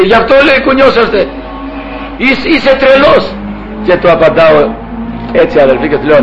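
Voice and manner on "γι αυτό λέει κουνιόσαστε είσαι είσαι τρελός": high-pitched mock indignation; imitated yelling. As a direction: mimic an irate caller accusing someone. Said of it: "Αυτός φώναζε".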